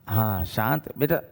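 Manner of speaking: low, lightly soothing parent's voice; gently calm an upset child, pitched low; hushing a child in a low voice. Acted. Models soothing a crying child.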